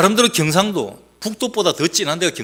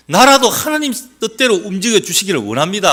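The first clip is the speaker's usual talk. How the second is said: praying aloud; 6 semitones higher, 7 dB louder than usual. Pretend. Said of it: "하고 나가야 돼요".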